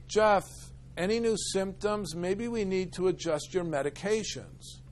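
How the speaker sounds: a hint of a gentle doctor checking in; concerned doctor. Psychiatrist asking her patient about symptoms, lightly voiced concern. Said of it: "And she says".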